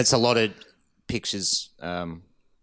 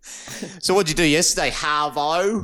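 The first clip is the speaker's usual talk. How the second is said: higher-pitched New York small talk; mock New York accent; 5 semitones higher than usual. Co-host asking about yesterday, mock New York accent. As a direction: ask it in put-on New Yorkese. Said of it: "nail the New York slango".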